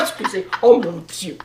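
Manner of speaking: usual speaking voice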